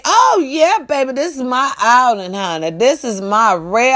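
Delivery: lightly voiced old lady, brightening up; a relieved old lady finding her car; happy old lady. Retelling the old lady spotting her car, lightly voiced relief.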